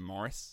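"Morris" as MORR-iss, stress first; "Morris" rhyming with "Doris"; Australian pronunciation. Shown as a demonstration. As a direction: say "Morris" with a short second syllable. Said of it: "all the Australians call him".

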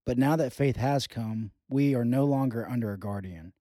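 measured, solemn Bible reading; Scripture reading. Acted. Reads Scripture passage aloud.

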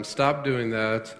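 slow, measured parental command; dad calmly telling kids to behave; slow firm dad. Retold or imitated. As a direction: lay down the law calmly. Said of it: "I talk to them and say to them".

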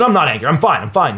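mock protest of being fine; defensive denial. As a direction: brush it off a bit too fast. Acted defensive denial of anger.

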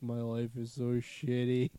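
slow, drawn-out mock lament; miserable cow. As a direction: moan it slowly like a fed-up cow. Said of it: "hear a cow be like".

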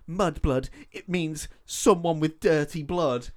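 slow, mildly dramatic retelling; mock tearful. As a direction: imitate a dramatic, slightly tearful explanation. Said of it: "having a little cry".

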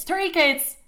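high, loud indignant cry; outraged exclamation. Retold or imitated. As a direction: throw it out in scandalised disbelief. Her outraged echo of his words.

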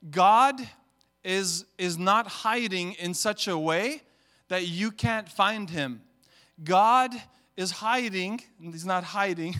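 loud, slow emphatic preaching. Real, not acted. Pastor preaching to church, loud emphatic delivery. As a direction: hammer each word to the congregation.

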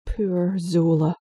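slow, bitter mockery; girl resenting her brother's attention; sarcastic. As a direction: drag it out sarcastically.

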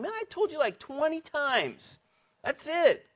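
high-pitched, fed-up scolding; exasperated parent. Acted. Parent to children who never listen, high exasperated scolding.

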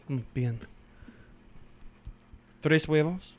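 lightly voiced Spanish rant with long pauses; Pau Gasol rant. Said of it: "do a Pau Gasol rant right now".

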